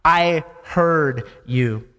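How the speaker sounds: measured correction, slowing right down at the end; God's knowing response. Retold or imitated. God answering Sarah's denial, slow and deliberate. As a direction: imitate a deliberate, spaced-out rebuttal. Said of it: "I love God's response".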